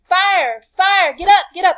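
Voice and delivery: high, loud cries of alarm; urgent alarm shout. Acted. Teacher voicing her fire monologue, shouting in alarm. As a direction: shout to wake the house, pitched well up. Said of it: "I tell you what I'm saying".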